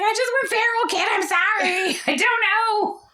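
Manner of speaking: hammed-up sorry; mock tearful. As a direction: whimper it.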